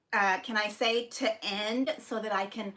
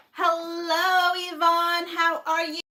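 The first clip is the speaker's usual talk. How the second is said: singsong greeting; 6 semitones higher, 5 dB louder, slower than usual. Real, not acted. Greeting live chat viewers singsong.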